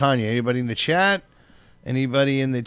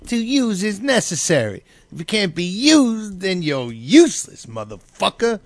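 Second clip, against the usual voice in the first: put-on slow, raised German accent; 5 semitones higher than usual. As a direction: read it in a heavy German accent. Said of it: "all in a German voice".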